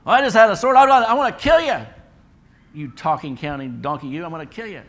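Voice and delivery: hammed-up Balaam screaming at his donkey; enraged yell. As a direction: scream at the talking donkey in blind rage. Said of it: "and he just talks back".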